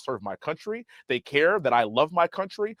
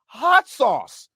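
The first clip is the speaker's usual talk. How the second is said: mock disgust; 10 semitones higher, 6 dB louder than usual. Real, not acted. Mocking Hillary's hot sauce.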